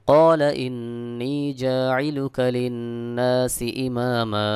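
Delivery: slow melodic tajweed chant with long held vowels; Quran recitation. Shown as a demonstration. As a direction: recite slowly, drawing out each nasal and long vowel.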